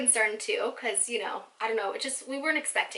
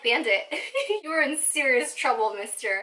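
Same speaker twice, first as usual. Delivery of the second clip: laughing mock scold; 2 semitones higher, 3 dB louder than usual. Scolding the cat.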